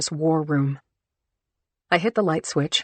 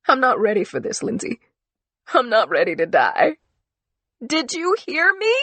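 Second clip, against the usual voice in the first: high, tearful desperate pleading; crying out in fear; tearful outburst; 5 semitones higher than usual. Acted. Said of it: "cry into my shirt sleeve".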